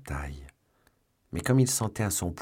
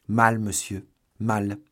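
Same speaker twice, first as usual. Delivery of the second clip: loud, raised servant's voice; alarmed servant; 4 semitones higher, 7 dB louder, slower than usual. A narrator's reading. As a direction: blurt out the bad news. Servant announces bad news to master. (valet alarmé, voix forte et plus haute)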